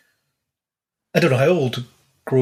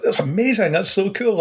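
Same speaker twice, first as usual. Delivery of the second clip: excited; 6 semitones higher than usual. Retold or imitated. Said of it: "I was like".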